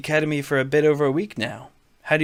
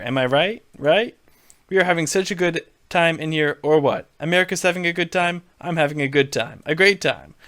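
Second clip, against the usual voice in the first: Trump voice; 3 semitones higher than usual. Acted. Donald needling Jeb on stage, lightly brash Trump voice. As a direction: bluster at him like a showman.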